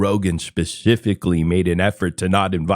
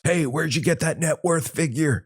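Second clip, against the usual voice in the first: mock questioner; 6 semitones higher, 3 dB quieter than usual. Voices an imagined question to Brendan.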